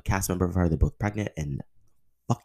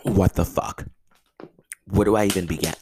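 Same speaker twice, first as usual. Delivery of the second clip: outraged disbelief; 4 semitones higher, 5 dB louder than usual. Real, not acted. Outraged at the show ending.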